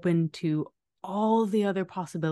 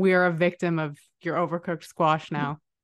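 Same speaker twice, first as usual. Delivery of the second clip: normal talking voice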